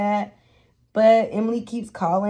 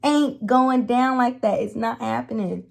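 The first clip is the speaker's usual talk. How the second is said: defiant inner voice. Retold or imitated. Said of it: "it clicked in my head".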